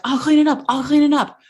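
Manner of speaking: high, hurried, panicky offer; panicked. Retold or imitated. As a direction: blurt it out twice in retold panic. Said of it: "panicked. So I was like".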